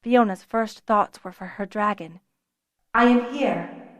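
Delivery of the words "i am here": calm. A narrator's reading. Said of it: "Talent sounded calm".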